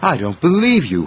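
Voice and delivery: huffy. Acted. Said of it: "huffed Thomas".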